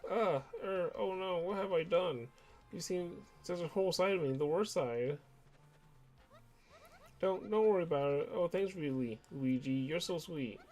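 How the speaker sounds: embarrassed fan. Acted. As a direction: apologize shyly and thank him sweetly.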